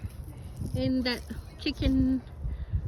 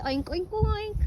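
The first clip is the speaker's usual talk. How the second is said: slightly raised, mock pig oinks; playful pig oinks; 4 semitones higher than usual. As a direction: lightly imitate a pig for a child. Imitating the pig for a child.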